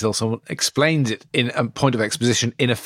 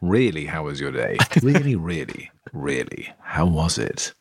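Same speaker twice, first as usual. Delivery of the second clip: deeply sincere; 5 semitones lower than usual. Shown as a demonstration. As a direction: ask it as if you truly care. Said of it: "now really, really ask them".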